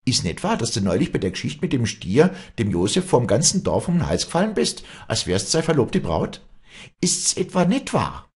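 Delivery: high, loud tirade; heated cross-examination at high pitch; furious accusation. Acted. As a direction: pile up accusing questions, voice leaping up. Acted quarrel, public accusation.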